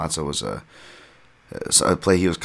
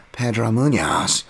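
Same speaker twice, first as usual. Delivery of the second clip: put-on loud, drawn-out, higher Bisping accent; 6 semitones higher, 4 dB louder, slower than usual. Fight podcaster mimicking a commentator, annoying Bisping accent. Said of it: "In, like, an annoying Bisping accent".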